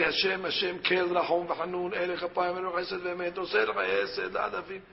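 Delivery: level, quick-flowing liturgical recital; rote prayer recitation. Shown as a demonstration. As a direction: run through the prayer by heart, softly. Recites the thirteen attributes.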